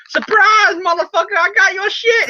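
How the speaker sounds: high, hammed-up yell; comic shrieked taunt; mock surprise attack. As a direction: burst in yelling to ambush someone. Acts villain's surprise entrance.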